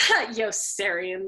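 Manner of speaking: slow amused chuckle on the name; fond, laughing head-shake. Acted. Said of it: "the two officers laughed".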